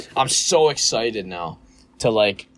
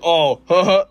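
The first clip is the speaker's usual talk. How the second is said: manager laughing; 6 semitones higher, 6 dB louder, slower than usual. Retold or imitated. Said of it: "He's like".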